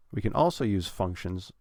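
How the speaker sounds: "also" stressed, "functions" kept light. Shown as a demonstration. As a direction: lean on "also", ease off "functions". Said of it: "not putting as much stress on functions".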